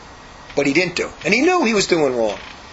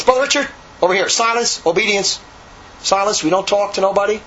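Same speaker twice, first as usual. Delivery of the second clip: higher-pitched mock order to a brother; imitated stern command; 3 semitones higher than usual. Brother Michael summoning Richard back to silence, imitated stern command. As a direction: call him to heel, imitating a strict superior. Superior calls him sharply to silence.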